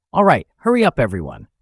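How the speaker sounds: urgent command. A narrator's reading. An ascetic commands the others to hurry, urgent. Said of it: "urgency in their voice".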